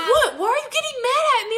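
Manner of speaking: high, fast mock boyfriend voice; imitating Hunter. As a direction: play him as baffled and defensive. Voicing Hunter in the argument.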